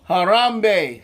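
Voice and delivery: loud, high Bahala na; energetic call. Shown as a demonstration. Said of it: "Let me do it and you follow me".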